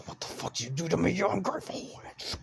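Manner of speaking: loud, high furious yell; furious shout. Acted. Man screaming at the vampire woman who changed him, furious. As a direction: scream it at her in rage. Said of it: "Then I lashed out at her".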